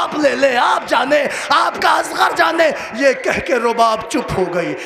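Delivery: chanted mourning narration that climbs steadily in pitch; a preacher's grieving chant that rises line by line; majlis recitation. Acted. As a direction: recite the lament, building toward a cry.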